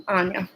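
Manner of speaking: Anya with a long "ah", said softly; soft, open-vowelled "AHN-ya"; pronunciation number one. Shown as a demonstration. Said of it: "okay, number one".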